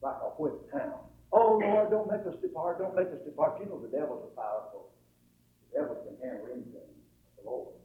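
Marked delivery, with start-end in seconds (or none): 1.3-3.6 mock whimper. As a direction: plead like a whipped hound, lightly acted. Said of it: "they went to whimpering".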